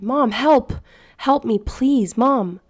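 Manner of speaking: high, loud panicked cries for mom; desperate scream for help. Acted. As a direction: scream for your mother as someone drags you away. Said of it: "I screamed as loud as I could".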